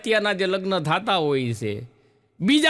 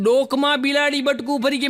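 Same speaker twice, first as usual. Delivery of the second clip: higher, disbelieving question rising at the end; incredulous repeat; 7 semitones higher than usual. Retold or imitated. Repeating the man's excuse back to him in disbelief. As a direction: echo it back in mock disbelief. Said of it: "આ પહેલી વાર સાંભળ્યું".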